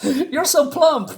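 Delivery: a prim, sugary high squeak; squeaky girl voice. Retold or imitated. Reteller voicing Rula teasing Fifa again, high and composed. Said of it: "And she says".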